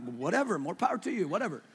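bored brush-off, deliberately dismissive; lightly played who-cares; mock indifference. His shrugging reply to the dog lover.

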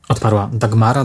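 usual speaking voice

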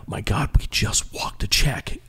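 slow, urgent whisper; panicked whisper. Retold or imitated. To the tour manager after skipping the bill, urgent whisper. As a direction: hiss it out so nobody hears.

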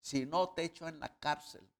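loud, slow threatening demand; furious creditor shouting at his fellow servant; angry demand. Retold or imitated. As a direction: spit out the demand at the debtor. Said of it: "le ahogaba diciendo".

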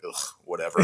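imitating a fed-up border agent; bored sigh. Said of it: "the biggest sigh".

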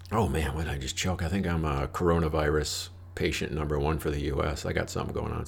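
stuffy nose from a cold; sniffling. Real, not acted. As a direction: talk through sniffles and a runny nose. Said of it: "sorry about all the sniffling".

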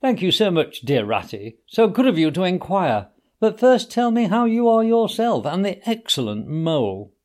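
a hint of a weak invalid, playing it up; sickly Toad feigning weakness to Ratty; feeble voice. A narrator's reading. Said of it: "a feeble voice replied".

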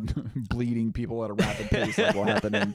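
real laughter breaking into the words; laughing. Real, not acted. Host joking to co-host about losing fans, laughing through it. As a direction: crack up while talking.

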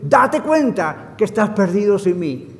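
emphatic preacher voicing God; God's stern warning. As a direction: deliver a forceful ultimatum, building at the end. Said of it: "es para decir".

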